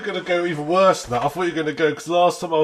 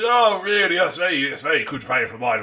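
mock posh English accent. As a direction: play a farmer's friend hamming up posh English in the supermarket. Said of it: "fake sort of posh accent".

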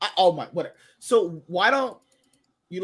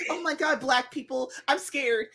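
higher, softer mock-frightened voice; mock scared; 6 semitones higher, 6 dB quieter than usual. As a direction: imitate her timid little panic. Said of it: "she would be like".

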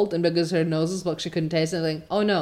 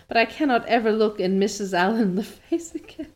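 reading through a laugh; laughter breaks into the line; 2 semitones higher than usual. Real, not acted. Reader laughs mid-line at Anne's despair, laughing. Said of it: "I can't stop laughing".

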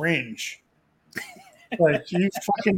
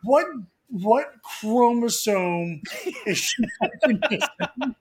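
laughing disbelief; 6 semitones higher than usual. Real, not acted. Incredulous laughing question.

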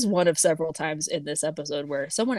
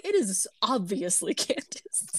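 high, laughing through the words; giggling while saying it; 11 semitones higher, 4 dB louder than usual. Real, not acted.

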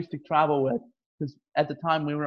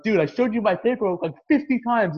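mildly heated protest, pitched up; exasperated insistence, higher voice; retold anger; 4 semitones higher than usual. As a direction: replay being fed up with an official. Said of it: "got mad".

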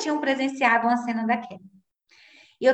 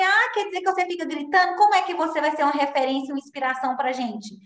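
mocking critical mothers; 4 semitones higher, faster than usual. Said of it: "elas vão falar assim".

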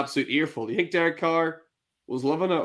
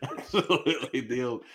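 laughing. Real, not acted. Laughing after impression.

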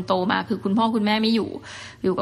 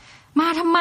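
high, scolding grandma yelling at her runaway granddaughter; mock scolding yell; 8 semitones higher, much slower than usual. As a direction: snap at the kid like an upset granny. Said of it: "แบบโวยวาย". (เสียงยายโวยวายดุหลานแบบเลียนเสียง)

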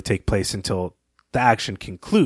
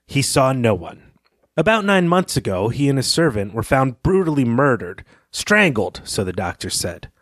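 reading Turner's lines; 3 semitones higher than usual. Acted. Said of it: "Turner says this".

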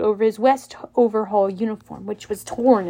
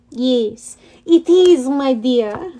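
put-on heavy French accent; 3 dB louder, much slower than usual. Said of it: "in a heavy French accent".

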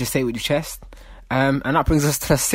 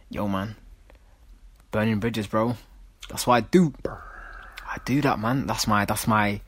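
a lightly voiced show-off, half whispered; mock hushed brag about burning bridges; mocking poser voice. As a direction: play the self-styled loner, hushed and smug. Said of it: "I don't know why I'm speaking like this".

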